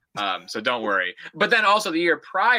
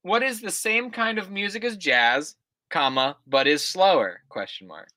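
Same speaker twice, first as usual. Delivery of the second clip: put-on reading an old essay aloud, punctuation and all; dictating; 3 semitones higher than usual. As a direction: read it out like dictation, calling each comma. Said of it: "I'm telling you the punctuation".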